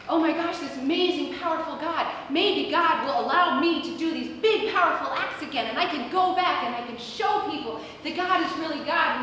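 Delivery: mildly excited inner monologue; eager, hopeful burst of awe. Acted. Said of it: "he's getting all excited".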